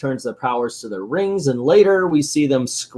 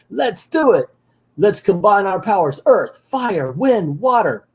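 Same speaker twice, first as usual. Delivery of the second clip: higher-pitched mock heroic call; rallying heroes; 6 semitones higher than usual. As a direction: call out the powers like a cartoon team. Heroes summon their combined powers.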